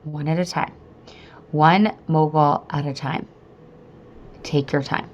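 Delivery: calm mantra with long pauses; self-soothing mantra. Retold or imitated. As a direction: talk yourself down, phrase by phrase. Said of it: "I got myself a mantra".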